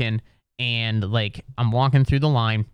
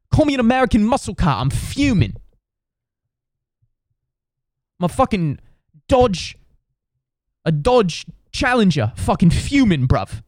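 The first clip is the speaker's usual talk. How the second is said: high, comically upset British bloke; British accent, fuming; 7 semitones higher than usual. Retold or imitated. British traveller venting to his friend in line, comically fuming British accent. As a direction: hit "fuming" hard in a mock British accent. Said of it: "you are hilarious to listen to when you're upset".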